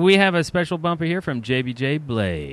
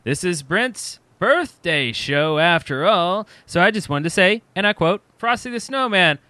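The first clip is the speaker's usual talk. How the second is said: character voice; 7 semitones higher, much slower than usual. Acted. Reading listener message in voice.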